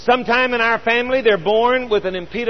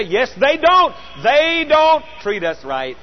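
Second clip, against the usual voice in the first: protesting on behalf of the wronged; mock complaint; 4 semitones higher, slower than usual. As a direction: act out an indignant complaint, higher and drawn out at the end. Voicing an easy complaint about others.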